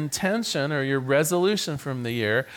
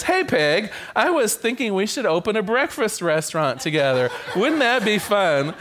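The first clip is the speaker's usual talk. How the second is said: cheery chicken, chuckling; 4 semitones higher than usual. Acted. Chicken to pig, proposing a breakfast restaurant, cheery. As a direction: pitch the idea with a grin. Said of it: "The chicken says".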